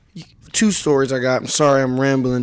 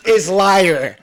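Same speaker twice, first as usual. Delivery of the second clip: retold girlfriend's rant; 5 semitones higher, 4 dB louder than usual. Girlfriend accusing actor Trevor of lying, emphatic mock rant. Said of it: "She said".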